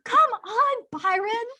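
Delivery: begging him to see, half-mocking; hammed-up desperate plea; mock pleading protest.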